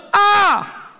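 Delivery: anguished cry rising to a slow, drawn-out "Prestada"; dismayed cry. Retold or imitated. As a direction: cry out in dismay over the lost borrowed axe. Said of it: "Y gritó diciendo". (grito angustiado y exagerado)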